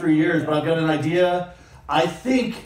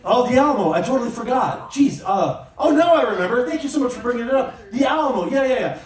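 higher, mock-grateful sarcasm; sarcastic; 4 semitones higher than usual. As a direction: pretend to be thankful, dripping with irony. Sarcastic fake gratitude.

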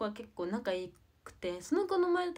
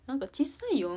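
louder, higher mock of mom's criticism; mother's complaint; 6 semitones higher, 7 dB louder than usual. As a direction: imitate mom telling you off. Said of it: "みたいな".

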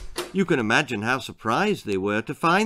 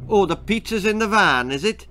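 guessing; 7 semitones higher, 4 dB louder than usual. A narrator's reading. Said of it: "guessed Daffyd".

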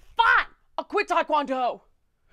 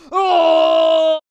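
sudden loud panicked oh; a loud overwhelmed cry at a to-do list; stressed shout; 3 semitones higher, 14 dB louder than usual. Retold or imitated. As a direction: blurt out a frantic oh.

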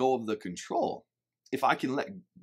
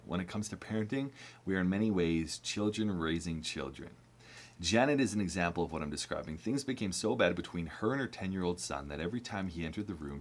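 reading from the book; 3 semitones lower than usual. Acted. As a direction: read the passage steadily, a notch down. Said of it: "I wanna read just this little part from the book".

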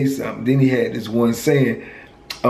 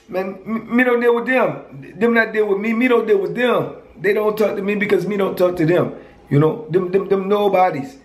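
put-on Virgin Islands accent pitched way up, dismissive; high-pitched Virgin Islands accent; 6 semitones higher than usual. Friend explaining why his people shun him, in a high Virgin Islands accent. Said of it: "I liked his accent".

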